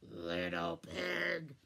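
low, slow, growling wolf voice; deep slow wolf calling at the door; big bad wolf. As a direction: drag it out like a menacing wolf. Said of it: "he cried".

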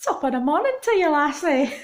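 high, quick hammed-up Irish greeting; mock Irish accent. Joking to viewers about her Irish roots, in a mock Irish accent. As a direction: put on a jokey Irish lilt, sing-song and fast. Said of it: "there's a lot of Irish, so".

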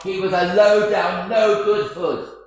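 a priest condemning a gangster from the pulpit; slow denunciation. Retold or imitated. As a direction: drag out each insult slowly. Priest denounces gangster at funeral.

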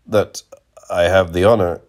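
halting restart, pausing after "that"; hesitant, with a gap after "that"; hesitating. A narrator's reading. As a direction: break off after "that", then resume "I have the honor". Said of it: "he hesitated".

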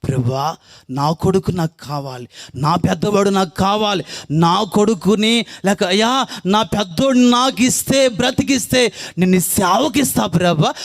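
mother pleading loudly at the bedside; weeping prayer. Retold or imitated. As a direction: beg God for the son, voice climbing. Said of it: "ఏడుస్తూ ప్రార్థన చేస్తుంటుంది".

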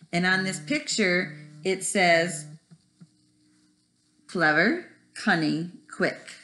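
put-on lively storybook read-aloud to kids; reading to children. Teacher reading Splat the Cat to her first graders, animated. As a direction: tell it like bedtime for a first grade class. Reads picture book to class.

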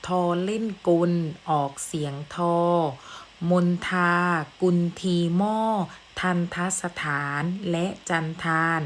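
measured rhyme recitation with breaks between phrases; verse read aloud. Shown as a demonstration. Teacher reciting the second rhyme to students, measured verse recitation. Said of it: "เรามาดูบุตรร้อยกลอง".

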